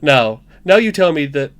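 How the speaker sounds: put-on slipping amateur Welsh accent; cling to a Welsh accent that is slipping away; attempted Welsh accent. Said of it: "I've lost it".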